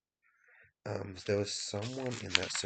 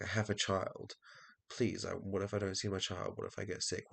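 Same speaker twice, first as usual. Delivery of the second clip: mock pleading; 3 semitones higher than usual. Acting out someone begging as parent.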